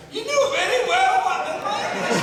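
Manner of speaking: high, loud mock prim scold; imitating Scottish lady. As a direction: play the prudish script supervisor telling him off. Prudish Scottish lady scolding him.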